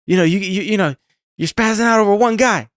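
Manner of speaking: high squawky bouncy Penguin voice; Penguin impression. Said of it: "That's my Penguin impression".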